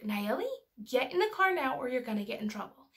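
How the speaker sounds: mildly stern retold warning; a touch of scolding parent, partly acted; angry mother. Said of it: "so I got angry".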